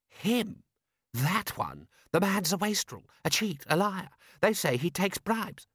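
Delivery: high-pitched aristocratic outrage; indignant lord. Acted. Lord Rust denouncing the prince's brother, high and indignant. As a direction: sputter with lordly scorn.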